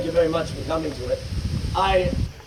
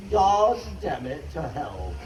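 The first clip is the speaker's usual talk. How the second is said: exasperated curse; 3 semitones lower, slower than usual. Acted. Poem's father cornered by family's questions, exasperated curse. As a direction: draw out the oath, then sink on "hell". Father in poem loses patience.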